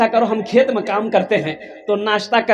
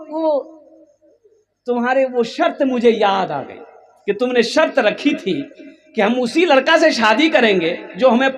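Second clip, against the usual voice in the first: raised, wondering voice of the husband; puzzled old husband; 6 semitones higher than usual. Acted. Old husband puzzling to his wife, raised voice. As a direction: ask it like a baffled old man.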